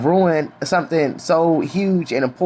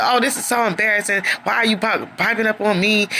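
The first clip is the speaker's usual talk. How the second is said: lightly imitated upset whine, higher; upset whining; 4 semitones higher than usual. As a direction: whine like you're embarrassed. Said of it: "Troy just gets upset".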